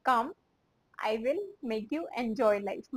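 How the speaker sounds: slow, word-by-word repeat. Shown as a demonstration. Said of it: "इसको हम English में कैसे बोलेंगे?".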